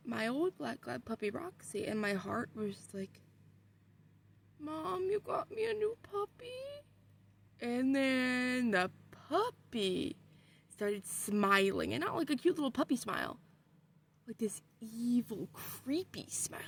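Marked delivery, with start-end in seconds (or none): 4.6-6.6 delighted. Retold or imitated. Sees a dog like her old one. 14.3-16.6 eerie whisper. A narrator's reading. Describing the puppy's creepy smile.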